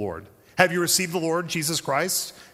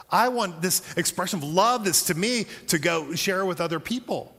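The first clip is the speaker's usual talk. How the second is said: higher, earnest, eager; eager believer; 5 semitones higher than usual. Retold or imitated. Mature believer responding to grace, eager and higher. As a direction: pour out the eager resolve. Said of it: "a mature response is".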